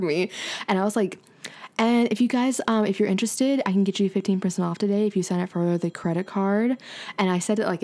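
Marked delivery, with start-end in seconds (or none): 1.8-6.8 soothing low tone. Retold or imitated. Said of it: "in this tone and everything".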